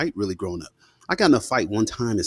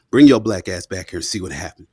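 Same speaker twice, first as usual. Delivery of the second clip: dare; 2 semitones lower, 6 dB louder than usual. Retold or imitated. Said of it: "daring me".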